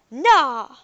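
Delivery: a loud, high burst of disbelief; amazed disbelief. Acted. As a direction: blurt it out, stunned. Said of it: "stared in amazed disbelief".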